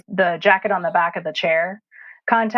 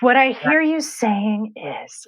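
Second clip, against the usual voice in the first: slow, higher-pitched, measured boss talk; serious boss; 4 semitones higher, slower than usual. Acted. Boss confronting staff without yelling, slow mock-serious. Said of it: "Oh God, she's serious".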